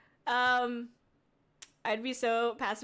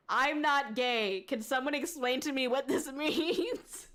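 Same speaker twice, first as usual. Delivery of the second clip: reading a comment. Retold or imitated. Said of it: "somebody commented on that and they said".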